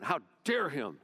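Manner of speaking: hammed-up indignant general storming off; furious Naaman. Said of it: "he was furious".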